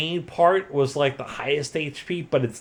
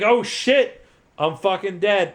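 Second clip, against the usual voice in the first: dying boss; 6 semitones higher than usual. Retold or imitated. Lavos voiced in a hammed-up high cry as he dies. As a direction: ham up a defeated villain's last words. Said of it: "and he's like".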